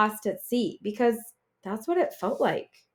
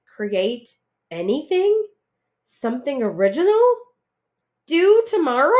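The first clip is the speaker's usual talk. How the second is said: each question higher and louder, panicking; rising panic; 5 semitones higher, 6 dB louder than usual. Acted. Panicked at the assignment.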